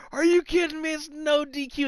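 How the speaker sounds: high-pitched indignant retort; mock Orton outrage. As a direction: protest in disbelief, imitating the wrestler. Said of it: "and then Orton says".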